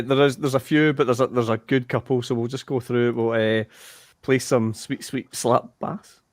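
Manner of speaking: ordinary talk, nothing marked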